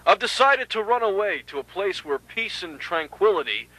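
soft voice on a tape recording; taped farewell message. Acted. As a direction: leave a subdued message on cassette.

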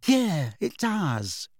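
a drawn-out, settled verdict; decisive. A narrator's reading. Witch judging her own reflection, decisive. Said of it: "said Tonks decisively".

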